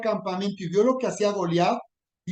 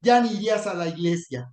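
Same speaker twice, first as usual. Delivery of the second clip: mocking accuser; 2 semitones higher than usual. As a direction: jeer at him as a hypocrite. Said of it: "es decir".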